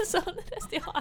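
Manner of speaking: a lightly done, laughing attempt at a Donald Duck voice. Girl trying Donald Duck's voice for friends, laughing. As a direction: squawk it out through giggles. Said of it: "hur fan pratar han".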